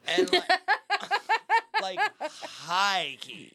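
high laugh breaking through; laughing through the words. Real, not acted. Laughing while telling.

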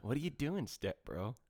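hushed, teasing step bro line. Pretend. Explaining the joke to his cohost, a quiet teasing meme voice. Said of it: "Do you get what I just quoted?".

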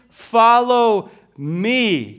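slow, "me" drawn out; weight on "me", slow and deliberate; stress on me. Shown as a demonstration. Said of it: "put your eyes on the me".

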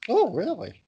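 high, whiny mock character voice; silly high put-on voice. Comic pestering his cohost, in a high silly voice. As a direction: play the childish nuisance. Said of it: "your bloody voice".

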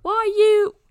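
put-on high, loud botched Irish accent; bad Irish accent. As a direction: attempt an Irish accent and miss. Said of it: "I can't do an Irish accent".

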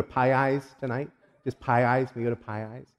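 PIE EYES said as two plain English words; outsiders' mispronunciation. Retold or imitated. College friends who couldn't say it, asking for Pie Eyes. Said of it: "they couldn't say it".

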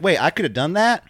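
a surprised wrestler who missed his chance, voiced high; imitating Chad Gable. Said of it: "Chad Gable's like".

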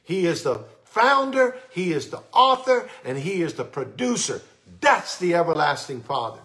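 founder and author shouted high, then producer drops back; excited proclamation. Real, not acted. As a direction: build it up with a loud, high proclamation. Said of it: "I'm sorry for getting excited".

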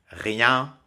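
rien, nasale finale nette; mot d'exemple. Shown as a demonstration. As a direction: dites rien avec le son nasal. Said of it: "par exemple". (rien détaché, nasale appuyée)

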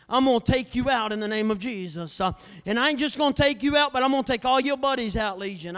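loud, driving preacher cadence; full-force preaching. Acted. Preacher to the congregation, full-force preaching. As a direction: preach it hard, daring the devil.

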